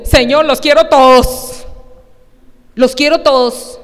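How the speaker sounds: loud, pleading "Señor, los quiero todos"; loud earnest petition; fervent prayer. Retold or imitated. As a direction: cry out to the Lord wanting every gift. Preacher voices own eager prayer.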